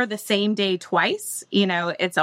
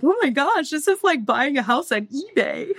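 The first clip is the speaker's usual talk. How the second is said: excited; 6 semitones higher than usual. Retold or imitated. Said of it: "I'm like".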